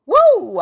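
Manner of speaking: loud, high whoop; big "woo". Real, not acted. Gearing up to begin the reading, loud high whoop. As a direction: let out a loud whoop to reset.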